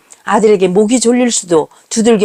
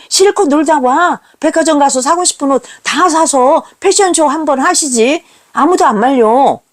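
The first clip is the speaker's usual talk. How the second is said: higher, mocking taunts; sneering sarcasm; 4 semitones higher than usual. Son sneering at his mother, higher and mocking. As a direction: needle her with scorn. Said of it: "피아냥거렸습니다".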